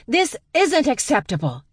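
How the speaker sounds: high loud protest; screamed protest. Acted. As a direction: scream it while being dragged out. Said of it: "she screamed".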